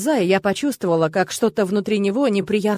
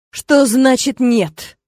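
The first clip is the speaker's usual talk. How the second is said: bristling anger; 3 semitones higher, 5 dB louder, much slower than usual. Acted. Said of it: "ощетинился мой отец".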